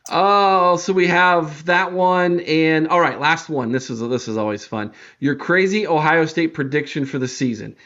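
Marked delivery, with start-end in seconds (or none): 5.2-7.0 "crazy" picked out as the key word; stress on crazy. Real, not acted. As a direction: lean on "crazy". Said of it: "I emphasize the word".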